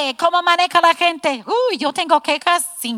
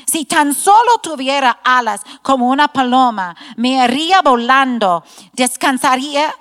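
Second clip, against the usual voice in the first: louder, earnest scripture reading; fervent Bible reading aloud; psalm reading; 3 dB louder than usual. Acted. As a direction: read the psalm as a heartfelt plea.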